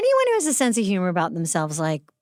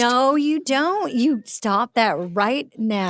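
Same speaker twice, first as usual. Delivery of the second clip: mock scolding; much slower than usual. Real, not acted. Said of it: "scolding friend kindly".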